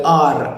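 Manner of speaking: "R" trilled like a tractor; Indian rolled R. Shown as a demonstration. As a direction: roll the end of "R" hard. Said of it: "like riding a goddamn tractor".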